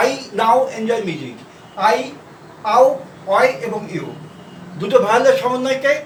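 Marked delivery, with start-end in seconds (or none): 0.1-1.4 slow model sentence. Shown as a demonstration. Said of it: "মিউজিক এর ইউ।".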